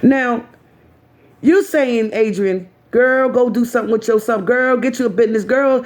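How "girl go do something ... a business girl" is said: mocking advice voice. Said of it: "Sort of kind of paraphrasing".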